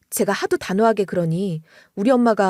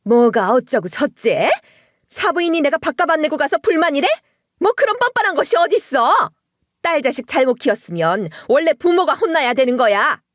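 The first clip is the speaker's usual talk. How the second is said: much higher, screeching outrage; shrieking mother-in-law; 5 semitones higher, 3 dB louder than usual. Retold or imitated. Mother-in-law screaming down the phone at the bride, much higher. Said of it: "악을 지르더라고요".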